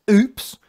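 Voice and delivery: a hammed-up caught-out "Oops"; mock oops. Mocking Tyrone's innocent act with a loud put-on oops.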